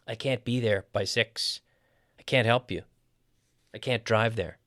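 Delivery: CAN'T with a full vowel and firm beat; stress on CAN'T. Shown as a demonstration. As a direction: put the weight on CAN'T each time. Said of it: "we stress the negative".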